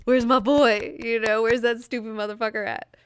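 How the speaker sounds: loud, high demanding calls; impatient fan. Retold or imitated. Imagined fan in the theater hunting for Bruce Campbell, loud and high. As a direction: call out for him in the theater. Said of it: "I'll be like".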